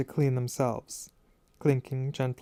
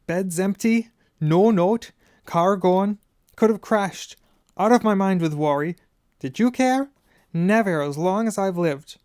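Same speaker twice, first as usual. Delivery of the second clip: loud, higher, furious scolding; a raging mother tearing into her sons; 4 semitones higher, 4 dB louder than usual. A narrator's reading. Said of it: "as her rage broke over them".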